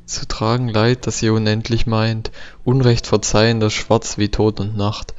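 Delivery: measured, even poetry reading; poem recitation. Acted. Let's Player reading a found poem aloud, measured recitation. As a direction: read the verse out steadily, phrase by phrase.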